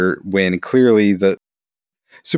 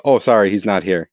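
Rick Grimes impression. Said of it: "Here's my impression of Rick when, uh, Carl's in trouble".

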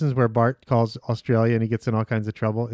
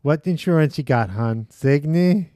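insurance clerk; slower than usual. Retold or imitated. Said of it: "This is the lady that works at".

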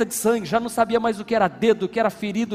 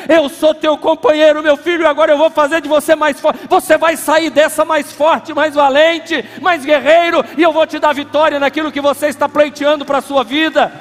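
God's voice; 7 semitones higher, 12 dB louder than usual. Acted. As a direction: speak as God promising strength. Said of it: "Deus vai dizer assim".

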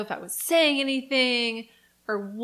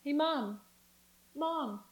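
calling mom; 5 semitones higher, slower than usual. Retold or imitated. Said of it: "I just kept being like".

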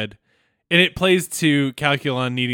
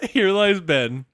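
laughing; 4 semitones higher, slower than usual. Real, not acted.

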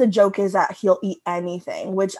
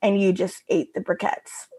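quieter, dropped punchline after a pause; let-down punchline; 4 dB quieter than usual. Shown as a demonstration. Showing co-hosts the strip's pacing, deflated ending. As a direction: let the line fall away, understated. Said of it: "the pacing of this whole strip".

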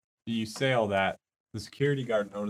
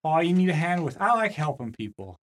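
eager helper voice; 4 semitones higher, 3 dB louder than usual. Acted.

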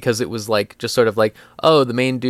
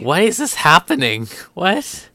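mock-bewildered outburst, pitched up; baffled reaction; 5 semitones higher than usual. Viewer reacting to a terminal illness arc, baffled. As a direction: act out sheer bafflement.

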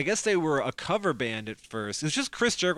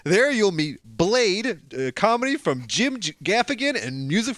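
booming prize announcer; 5 semitones higher than usual. Acted. Podcast intro as prize announcement.

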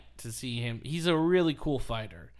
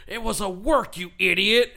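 louder, higher mock snap; mock scolding; 7 semitones higher, 8 dB louder than usual. Vince scolding Jericho after the match, loud mock snap.

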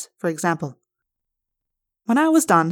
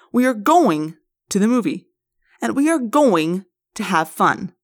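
forceful. Acted. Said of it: "when he gets all forceful like that".

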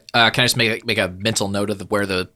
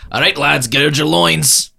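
rallying call; 5 semitones higher, 6 dB louder, slower than usual. Acted. Captain rallying his crew.

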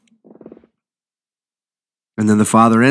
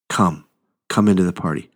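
softer and lower, gently pleading; tender invitation; 3 semitones lower, 4 dB quieter than usual. Real, not acted. Preacher gently inviting the Pharisees in. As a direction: invite them in quietly.

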